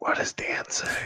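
close, slow, very quiet whisper right at the ear. Voicing a character who leans in close to another: whispering in someone's ear. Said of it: "whisper that in his ear".

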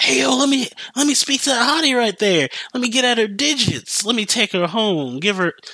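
mock drunken voice, very high-pitched. Retelling a customer harassing employees: imitating a drunk customer. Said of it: "they're really drunk".

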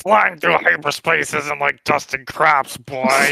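rough, creaky, hard, tough-sounding rasp. Pitching a casting pick, voicing the line as young Clint Eastwood. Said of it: "young Clint Eastwood".

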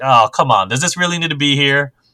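ordinary talk

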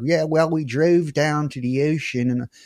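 put-on Philadelphia accent. Recalling somebody on the radio heard at age twelve, imitating a Philly accent. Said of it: "somebody's like".

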